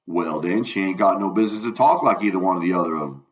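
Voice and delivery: lightly voiced debater in old Southern dialect; Jim, reasoning.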